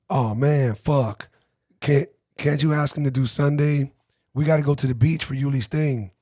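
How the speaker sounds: whiny little complaining voice. Retold or imitated. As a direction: whine it like a put-upon friend. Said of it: "in his whiny little voice".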